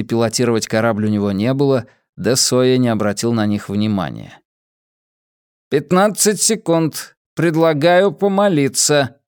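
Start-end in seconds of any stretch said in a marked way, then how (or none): 5.7-9.2 high, even ship-computer announcement; metallic robot voice. Acted. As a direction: speak like a cold onboard computer. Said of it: "металлический голос". (металлический голос бортового компьютера)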